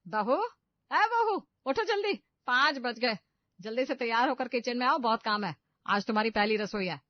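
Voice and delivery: strict mother-in-law hollering for her new daughter-in-law; loud call. A narrator's reading. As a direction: yell it across the house to wake her. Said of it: "जोर से चिल्लाती है".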